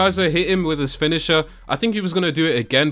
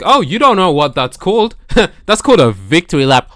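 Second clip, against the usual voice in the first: mocking Liv Morgan; 3 semitones higher, 6 dB louder than usual. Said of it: "Liv Morgan was like".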